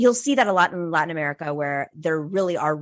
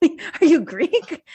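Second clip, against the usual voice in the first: higher, slow curious question; curious stranger; 7 semitones higher, much slower than usual. Retold or imitated. Strangers asking Nomiki her heritage, slow and curious. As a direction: ask it like a stranger who is puzzled. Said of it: "They're like".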